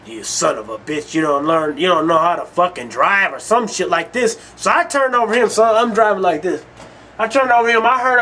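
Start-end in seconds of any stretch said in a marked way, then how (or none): 0.1-3.3 imitating angry driver. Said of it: "I can hear him saying some crazy shit like".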